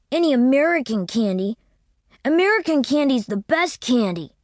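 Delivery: put-on high childish voice; insistent small boy; little boy. A narrator's reading. Boy demanding candy from Winterbourne, high and insistent.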